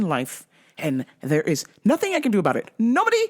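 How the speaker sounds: a hint of a serious mobster. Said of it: "I gotta put on my mobster voice".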